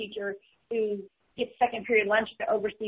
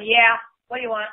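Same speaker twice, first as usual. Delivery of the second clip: louder, offhand phone answer; rude phone answer; 6 dB louder than usual. Retold or imitated. Kid answering the home phone without manners, mock rude. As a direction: imitate a kid answering curtly. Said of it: "they're not just going".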